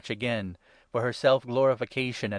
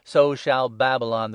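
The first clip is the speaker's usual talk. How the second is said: proclaiming; 2 semitones higher, 7 dB louder than usual. A narrator's reading.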